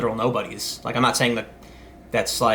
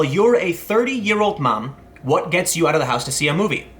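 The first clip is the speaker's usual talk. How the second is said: quoted pitch guy; 3 semitones higher than usual. Retold or imitated. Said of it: "One guy I was pitching to actually said".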